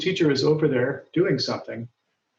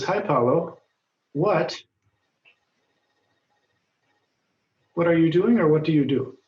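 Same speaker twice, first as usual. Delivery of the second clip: reading a line; 3 semitones higher than usual. Shown as a demonstration. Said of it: "Li Wu says".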